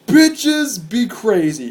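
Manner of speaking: high-pitched opening, falling off; retold amazed exclamation; astonished reaction. Concertgoer reacting to a brawl, astonished.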